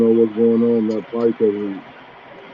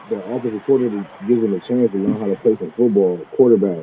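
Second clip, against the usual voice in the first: muffled; 3 semitones lower than usual. Real, not acted. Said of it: "your voice is muffled".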